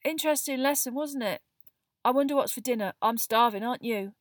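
high, rattled small talk; unnaturally high. A narrator's reading. Neville hides his upset from Hermione, unnaturally high. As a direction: chatter on to cover your shock. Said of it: "his voice much higher than usual".

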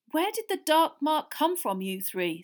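urgent question, starting high and loud; quickly. A narrator's reading. Father questioning the three, urgent quick question. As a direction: press them for an answer. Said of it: "said Mister Weasley quickly".

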